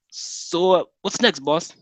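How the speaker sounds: henchman voice. Acted. Henchman Louise voiced in story.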